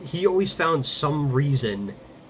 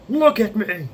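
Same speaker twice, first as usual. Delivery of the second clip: imitating the dad's sudden loud, higher shout; dad yelling; 9 semitones higher, 6 dB louder than usual. Retelling the dad shouting at his crying child, loud angry yell. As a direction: bark it like an angry father. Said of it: "And he says something like".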